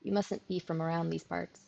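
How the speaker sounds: lightly put-on country accent; teasing rural girl, country accent. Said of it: "trying my hand at an accent again".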